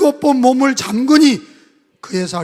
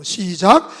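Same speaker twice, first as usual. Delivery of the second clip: normal talking voice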